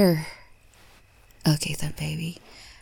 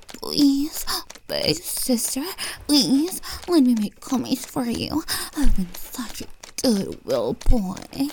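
mock pleading quote; 6 semitones higher than usual.

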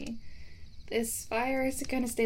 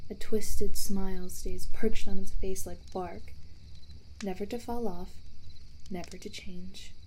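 ghost story voice. Acted. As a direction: draw them in with dread. Tells a ghost story by fire.

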